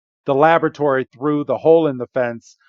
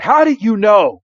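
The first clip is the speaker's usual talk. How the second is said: surprised question; 8 semitones higher, 5 dB louder than usual. Retold or imitated. Retelling tense Pikachu dialogue.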